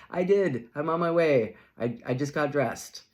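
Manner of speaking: hammed-up flustered excuse; mock defensive. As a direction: protest a little too loudly. Late friend defending herself.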